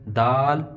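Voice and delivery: دال with a light d and open flat aa; light unrounded دال; thin, light دال. Shown as a demonstration. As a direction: keep the mouth unfilled for دال. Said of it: "یہ باریک ہے".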